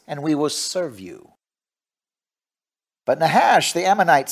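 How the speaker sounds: measured, declaimed Bible reading; scripture reading. Acted. Preacher reads First Samuel to the congregation, scripture reading. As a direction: read scripture out with deliberate phrasing.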